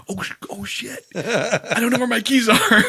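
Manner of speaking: high, slow, laughing panic; mock panic through laughter; panicked laughing. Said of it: "I'm like".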